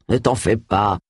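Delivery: low-pitched, calming man's voice; reassuring. A narrator's reading. Charles consoles crestfallen Agatha, reassuring. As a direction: gently tell her not to worry. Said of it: "la rassura-t-il".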